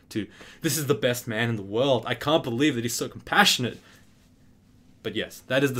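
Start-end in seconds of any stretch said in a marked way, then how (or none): 0.6-3.8 louder, gushing retold praise; sudden adoration. Student suddenly won over by his lecturer, adoring. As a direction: switch into mock adoration of the man. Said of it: "my entire mindset on this course has switched".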